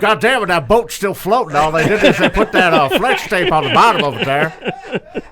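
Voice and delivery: lightly voiced amazed announcer; mock folksy amazement. Commentator watching a flex tape commercial, astonished mimicry. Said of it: "us doing J R impressions".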